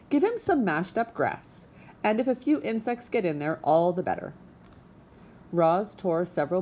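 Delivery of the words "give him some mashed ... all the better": lightly higher, brisk goose voice; brisk old goose. Acted. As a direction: breezily explain like an old goose. Goose gives advice.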